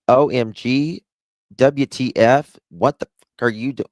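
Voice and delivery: loud, fast, freaked-out American; hammed-up American overreaction; dramatic American. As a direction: panic over nothing, loudly. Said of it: "we're very dramatic".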